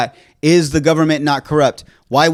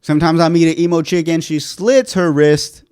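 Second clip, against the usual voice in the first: beat poet. Acted. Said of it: "now you sound like a beat poet".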